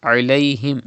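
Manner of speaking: "alayhim" opened with Arabic Ain; throaty Ain. Shown as a demonstration. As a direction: start "alayhim" from the middle of the throat. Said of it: "Ain pronounced from the middle part of your throat".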